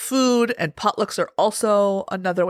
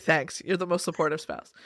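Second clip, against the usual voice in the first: sarcastic thanks; 6 semitones lower, 6 dB quieter than usual. Retold or imitated. Sarcastic reply to husband.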